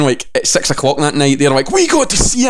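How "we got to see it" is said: high, sung taunt; smug, high singsong boast; mocking sing-song. Mocking rival outlets, sing-song.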